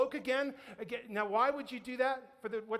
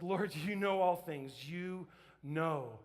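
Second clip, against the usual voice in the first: tag; 5 semitones lower, slower than usual. Acted. Hurt Peter answers Jesus.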